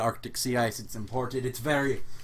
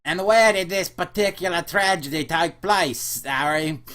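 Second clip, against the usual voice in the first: higher, louder, slow amused British; British accent; 5 semitones higher, 7 dB louder than usual. Acted. Clerk asking Elliot where he died, amused British accent. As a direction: hold back amusement.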